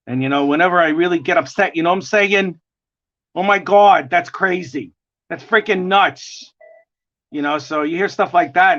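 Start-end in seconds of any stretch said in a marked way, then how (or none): 3.4-6.5 gravelly New York mob voice; New York accent. Shown as a demonstration. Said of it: "I have that gravelly voice".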